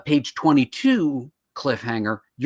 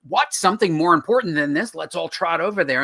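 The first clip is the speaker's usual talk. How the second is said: lightly acted TV-cop reaction, raised pitch; mock surprise; 4 semitones higher, 3 dB louder than usual. Detective pulled away from a dead body, mock surprised. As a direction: play up a touch of disbelief.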